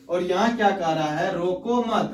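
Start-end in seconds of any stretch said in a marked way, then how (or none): 1.4-2.1 "रोको मत" as one closed phrase; रोको मत joined. Shown as a demonstration. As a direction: keep मत tight with रोको, then stop. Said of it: "मतलब उसे नहीं रोको". ("रोको मत" एक साथ बोलें)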